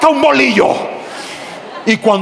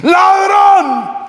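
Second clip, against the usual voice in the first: shout; 8 semitones higher than usual. Retold or imitated. Pastor yelling as he hits the thief. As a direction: yell it as you swing.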